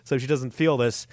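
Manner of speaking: shocked licensed doctor; freaked-out colleague. Retold or imitated. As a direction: panic at the sight.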